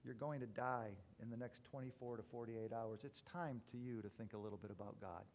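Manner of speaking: soft, low whispered warning; whispering. Retold or imitated. Pastor whispering to a dying man, soft and low. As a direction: lean in close and whisper it gently. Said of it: "while whispering in his ear".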